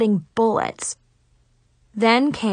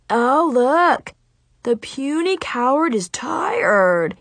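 heckling; 4 semitones higher, slower than usual. Acted. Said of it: "he heckled me".

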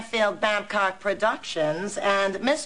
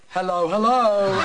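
put-on English accent; 4 dB louder than usual. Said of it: "Or should I say".

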